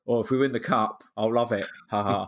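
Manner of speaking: breezy, offhand mock boast; flippant. Fan retelling his remark about the cup, flippant. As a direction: toss it off with a jokey ha ha. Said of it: "said something really flippant like".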